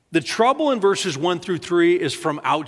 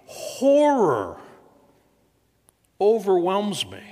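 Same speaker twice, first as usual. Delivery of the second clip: horror; 4 semitones higher, slower than usual. Acted. Reading the psalm's terror.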